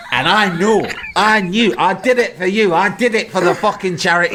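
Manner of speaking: high, insistent mock tirade; retold fuming. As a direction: imitate a man indignantly driving his point home. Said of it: "genuinely fucking fuming".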